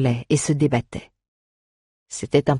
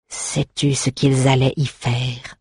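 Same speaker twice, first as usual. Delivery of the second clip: slow menace; slower than usual. Acted. Prince slowly menaces the goblin, blade raised. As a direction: draw it out like a blade rising. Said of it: "reprit-il en soulevant lentement sa lame".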